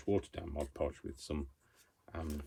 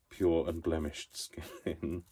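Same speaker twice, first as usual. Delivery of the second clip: 1 mock vanity; much slower than usual. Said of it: "can't even finish the sentence without laughing".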